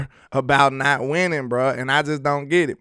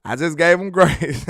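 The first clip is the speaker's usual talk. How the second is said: laughing; 3 semitones higher than usual. Real, not acted. Laughs at his own leniency.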